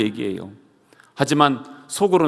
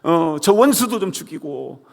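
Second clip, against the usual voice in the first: raised, grumbling curse; vengeful inner cry; 3 semitones higher than usual. Retold or imitated. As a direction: mutter death wishes at enemies. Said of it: "막 이러면서". (원수를 향한 속마음의 저주)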